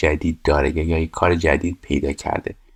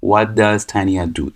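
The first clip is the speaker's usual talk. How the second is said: 1 slow model answer; 2 semitones higher, much slower than usual. Shown as a demonstration. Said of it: "از does استفاده بکنیم".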